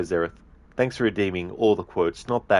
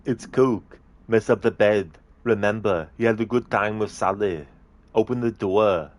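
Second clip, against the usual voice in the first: Arnie impression. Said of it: "the Arnie movie scene impression".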